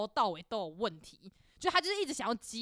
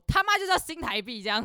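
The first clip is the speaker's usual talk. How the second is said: mock angry retort; 3 semitones higher, 5 dB louder than usual. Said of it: "我同事直接爆气".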